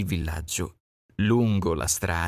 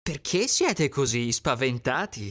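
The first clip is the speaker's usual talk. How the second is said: higher little duck, curious; duckling voice; 4 semitones higher than usual. Acted. Duckling asking scared friends, high voice. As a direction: ask like a small duckling.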